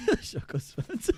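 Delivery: very high, slow squeal laughing; squealed German. Pretend. Streamer squeals a German word, very high and slow.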